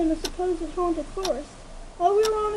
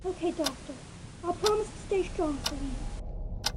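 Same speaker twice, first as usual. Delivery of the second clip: quieter and slow, hesitant; barely find the courage to answer; soft, timid promise; 6 dB quieter than usual. Acted. Frightened filly promising the doctor, softly and slowly.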